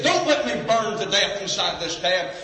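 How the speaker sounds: high, loud pleading cry; retold scream. Preacher voicing the trapped driver begging for death, high loud cry. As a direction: beg to be shot, voice up high. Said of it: "he began to scream".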